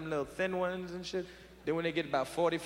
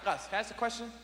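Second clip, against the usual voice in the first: put-on higher, shouting drunk dad; drunk father scolding Gus; 4 semitones higher than usual. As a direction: chew out the uncle like a drunk father. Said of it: "He said".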